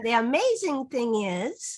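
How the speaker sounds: slow read, rising on amazing; modeling again. Shown as a demonstration. Teacher repeating the stem for a child's ear, slow. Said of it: "you can model a sentence multiple times".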